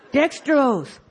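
mock wonder; entranced fascination. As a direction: marvel at it as if hypnotized. Acting out cereal trance fascination.

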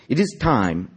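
high announcement in a mock Russian accent; teacher's proclamation with a hammy Russian accent; Russian-sounding accent. A narrator's reading. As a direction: declare it to the class, Russian-accented. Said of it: "just change her name and just make it Russian".

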